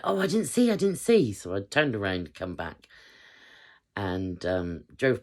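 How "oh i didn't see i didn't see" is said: mock girly squeal, much higher and louder; imitating excited girls. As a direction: do the friends who missed it, whining. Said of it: "some of the girls were like".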